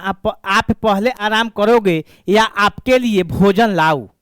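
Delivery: slow, tender question, like a caring wife; lovingly asked. Shown as a demonstration. Teacher voicing a caring wife asking her husband, slow and tender. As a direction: ask it gently and lovingly. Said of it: "कितना प्यार से कह रहा है".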